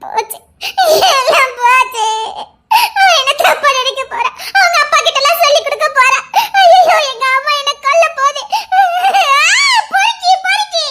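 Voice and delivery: half sobbing, half laughing in despair; trapped woman despairing in tears; tearful despair. Acted. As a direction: wail that it's all ruined.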